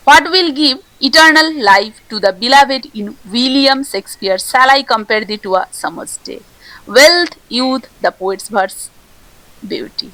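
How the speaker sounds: slow, deliberate reading of a quiz question; unhurried exam question read. Acted. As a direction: read the question out slowly for the class. Reads quiz question and options.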